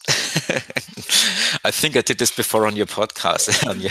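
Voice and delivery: chuckling slowly through the words; amused, laugh spilling into the answer. Real, not acted. Guest asked for a personal fact, answers laughing.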